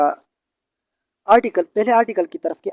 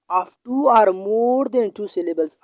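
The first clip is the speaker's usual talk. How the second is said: each word of the rule spelt out slowly; slow, deliberate classroom dictation; 2 semitones higher, much slower than usual. Shown as a demonstration. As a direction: dictate the rule so students can write it down. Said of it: "teacher repeats rule slowly".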